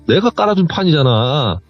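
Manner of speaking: retold yelling. Aunt protesting to the teller, restrained retold yell. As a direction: start her mock outburst, still held back. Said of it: "하면서 막 소리를 지르는데".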